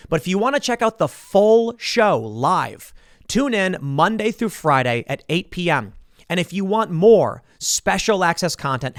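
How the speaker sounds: even, measured promo read; podcast outro read. Acted. Host closing the podcast segment, steady promo read. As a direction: pitch the membership like an announcer.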